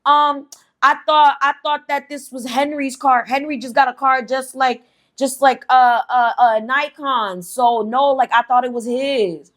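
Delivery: high, flustered stammering excuse; imitating a caught woman stammering to the girlfriend; shocked backpedaling. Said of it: "Linda is shocked".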